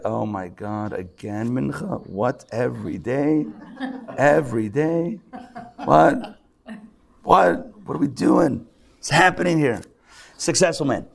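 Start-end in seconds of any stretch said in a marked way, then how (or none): 0.0-9.8 mock-weary complaint building to an exasperated what; reluctant servant. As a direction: whine like a servant dragged to duty again. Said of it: "And then there's the heel mitzvah".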